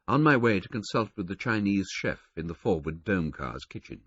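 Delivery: ordinary delivery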